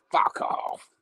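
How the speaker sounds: slow, lightly voiced sci-fi villain; a hint of Davros, drawn out and dismissive. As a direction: refuse slowly as a mock Davros. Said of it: "And he'd go".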